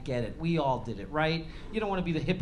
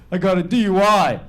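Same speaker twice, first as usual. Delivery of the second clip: son confessing; 2 semitones higher, 11 dB louder than usual. Retold or imitated. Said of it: "He goes".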